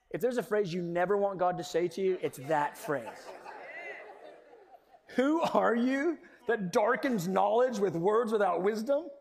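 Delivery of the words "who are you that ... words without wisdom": slower rebuke with a laugh in it; slow, laughing repeat. Acted. Preacher repeating God's words to Job with amusement, slow and laughing. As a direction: savor the rebuke, half laughing.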